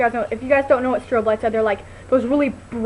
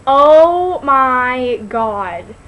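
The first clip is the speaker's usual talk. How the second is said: amazed oh my god; 7 dB louder, much slower than usual. Real, not acted. Excited recall of the movie.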